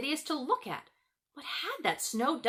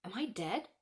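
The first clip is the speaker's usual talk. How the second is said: ordinary delivery, nothing marked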